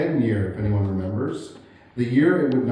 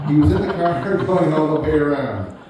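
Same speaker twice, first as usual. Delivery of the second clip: louder, laughing through the words; can't hold back the laughter; 4 semitones higher, 6 dB louder than usual. Real, not acted. Laughing at his racetrack story.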